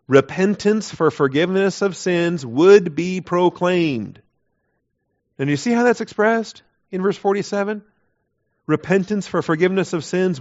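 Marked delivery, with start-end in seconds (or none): 0.1-4.2 slow reading. Shown as a demonstration. Reading the verse aloud slowly.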